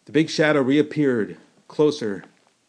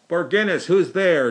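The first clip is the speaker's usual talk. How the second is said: louder, higher demand from the gate; demanding call; 5 semitones higher, 6 dB louder than usual. A narrator's reading. Gate guard demanding who is there, loud. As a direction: challenge it sharply. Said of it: "demanded the voice from the gate".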